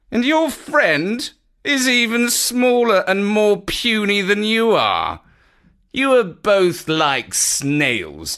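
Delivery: slow, booming, mocking dragon. A narrator's reading. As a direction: loom over tiny heroes, taunting. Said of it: "the echoing voice of the dragon".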